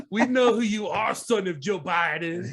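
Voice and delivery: lightly voiced slow, drawn-out accusation; mock accuser. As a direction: draw it out like a hammed-up investigator. Mock speech by conspiracy accusers.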